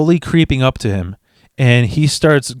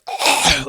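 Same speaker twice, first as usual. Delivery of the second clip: winded groan. Retold or imitated. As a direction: gasp as if winded. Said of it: "knocks the air out of you".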